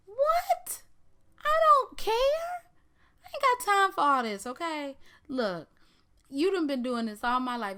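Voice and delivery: high, loud put-on voice, indignant and fast; Dean's outburst. Dean snapping at his sister in the casino, high and loud. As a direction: blow up at her in a shrill high voice.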